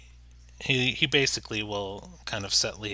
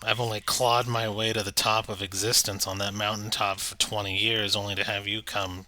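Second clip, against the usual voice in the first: a hint of a sulky monster voice; lightly voiced grumbling manticore. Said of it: "you hear the manticore's voice".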